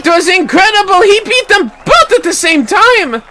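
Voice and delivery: high, loud delight; awed children. Acted. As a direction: cheer the champion. Children celebrate.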